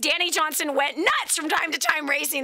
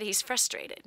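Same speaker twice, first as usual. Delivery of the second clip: tag; 2 semitones lower, 6 dB quieter than usual. Retold or imitated. The Lord's quiet answer retold.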